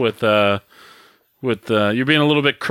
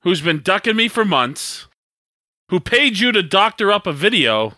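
mock wrestling promo, calling out a rival; deliberate grievance, pausing after each accusation; dramatic mock call-out with pauses; hot and heavy. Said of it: "hot and heavy here".

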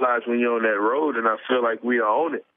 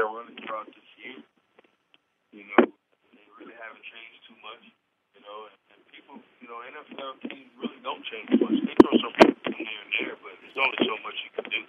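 cutting out; 4 dB quieter than usual. Real, not acted. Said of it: "it sounds like you're going in and out".

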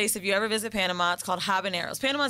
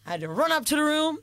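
put-on Jamaican accent; 6 semitones higher than usual. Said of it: "she got these accents down pat".

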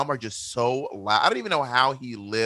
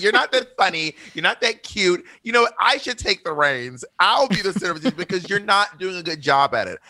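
mock indignation; 5 semitones higher than usual. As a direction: argue like an upstaged show-off. Acted jealous protest at rival.

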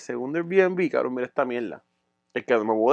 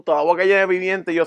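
ordinary delivery

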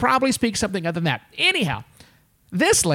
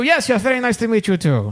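imitated French accent; 3 semitones higher than usual. Frenchman greets his new neighbor, mock French accent. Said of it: "but he had a French accent".

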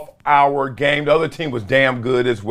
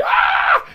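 imitated scream. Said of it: "And he just screams".

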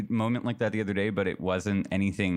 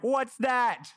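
high, baffled question; mock confusion. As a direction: play the clueless new streamer. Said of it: "You're like".

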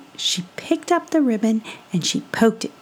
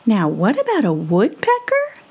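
put-on whispered old-lady question; kindly old woman asking, hushed. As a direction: ask gently like a curious old woman. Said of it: "asked the old woman".

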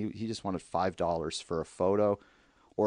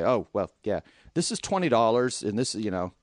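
greedy celebrity; 3 semitones higher, 6 dB louder than usual. Retold or imitated. Mocking greedy celebrity at signing.

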